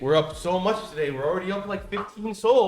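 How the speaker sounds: loud, high hype-man yelling; frat bro. Real, not acted. Rallying the boys, huge gains.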